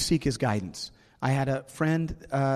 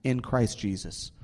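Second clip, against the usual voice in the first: preaching. Acted. Preaching scripture.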